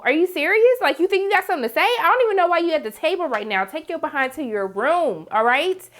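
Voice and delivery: fast, high-pitched telling-off; indignant scolding. Pretend. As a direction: scold a cheeky kid and send him off. Scolds the son as if present.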